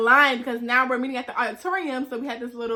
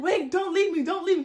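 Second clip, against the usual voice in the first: higher, hurried mock plea; panicked pleading; 5 semitones higher than usual. Student begs friends not to leave her, mild retold panic. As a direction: beg friends to wait.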